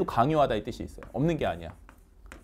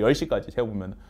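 usual speaking voice

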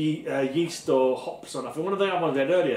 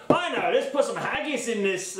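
put-on Scottish accent; 5 semitones higher than usual. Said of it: "that's kind of a Scottish accent".

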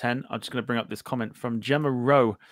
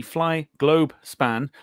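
slow 'Fly, Globe, Span' with separate words; broken into syllables; 4 semitones higher, much slower than usual. Real, not acted. Host introducing the livery ratings, carefully breaking up the name. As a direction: give each of the three syllables its own beat. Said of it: "break it up into three syllables".

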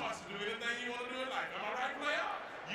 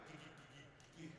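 slow, stuck stutter; low stammering stall; stuttering manager; 6 semitones lower, 14 dB quieter, slower than usual. Retold or imitated. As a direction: drag out each gee like you can't get the word out. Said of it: "It wasn't no stutter like".

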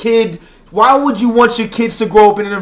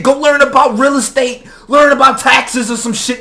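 exasperated shout; 2 semitones higher than usual. Real, not acted. Shouting advice at them.

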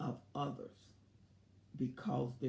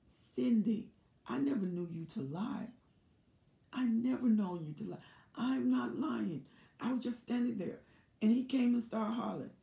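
pleading wife; 5 semitones higher than usual. Retold or imitated. Cindy pleading she's not lying.

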